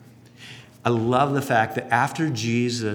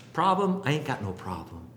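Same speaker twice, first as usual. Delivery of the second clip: dismissive denial; 4 dB quieter than usual. Retold or imitated. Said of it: "who said".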